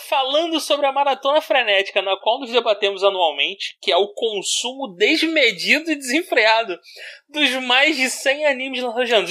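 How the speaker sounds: reading a pompous text aloud; formal reading. Acted. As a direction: read it like a grand essay. Reading the listener's written text.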